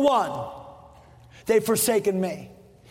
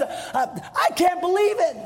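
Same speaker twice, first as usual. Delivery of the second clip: higher, stunned disbelief; incredulous God; 6 semitones higher than usual. Acted. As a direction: throw up your arms in disbelief. God throws up his arms and says.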